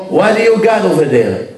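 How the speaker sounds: slow, drawn-out American agent's question; a hint of a border agent probing; lightly voiced American agent. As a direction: lightly play the suspicious agent.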